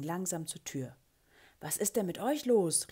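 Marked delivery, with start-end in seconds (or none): 1.6-2.9 loud, high-pitched exclamation; loud call. A narrator's reading. Teacher calls to dawdling pupils at break, loud call. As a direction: call it out loudly, pitch jumping up. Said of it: "rief ich laut".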